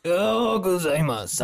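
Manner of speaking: high-pitched parody anime voice; hammed-up theatrical Japanese imitation; mock an over-the-top orator; mocking mimicry. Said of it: "not us making fun of him".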